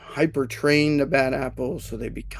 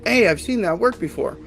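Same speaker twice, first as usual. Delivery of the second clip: higher, louder eager coworker; upbeat agreement; 5 semitones higher, 3 dB louder than usual. Retold or imitated. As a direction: chime in keen and supportive. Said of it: "come out and say".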